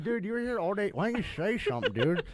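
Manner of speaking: high, incredulous friend's voice; shocked roommate. Retold or imitated. Roommate finding a guy in his tub, high and incredulous. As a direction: demand an answer in disbelief.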